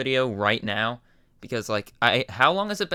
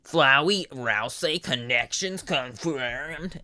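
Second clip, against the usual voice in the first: slow, drawn-out playful proclamation; half-joking dramatic declaration; mock announcement; 2 semitones higher, much slower than usual. Real, not acted. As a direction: announce it like a big reveal. Excited joke exclamation.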